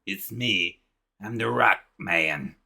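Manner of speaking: lightly imitated cartoon rock character, drawn out; Rockman. Rockman introducing himself to the boy, lightly imitated drawl. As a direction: stretch out the name in a mild character voice. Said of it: "he talks like that".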